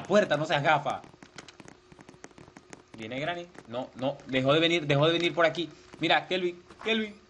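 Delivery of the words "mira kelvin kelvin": being chased. Real, not acted. Warning friend while chased.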